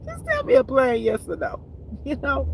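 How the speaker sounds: excited plea. Real, not acted. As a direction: beg high-pitched for a plain yes or no. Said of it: "if that wasn't clear".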